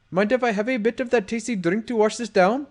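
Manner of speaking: a lightly voiced smooth gangster; tough guy voice. Black voiced in dialogue.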